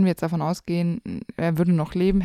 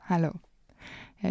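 ordinary delivery

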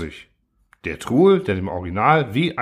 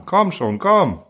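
higher, pushing coax; urging; 6 semitones higher, slower than usual. Acted. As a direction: hurry him along. Urging him into cellar.

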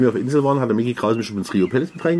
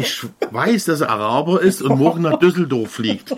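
raised stage-announcer pitch; a party singer; 5 semitones higher than usual. Retold or imitated. Singer on stage pointing out the cameraman, mock announcement. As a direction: play the party singer addressing the crowd. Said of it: "das war ein Partysänger".

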